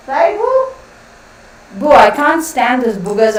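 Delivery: very high pet voice; sweet little question to the dog. Real, not acted. Owner asking her dog, high baby talk.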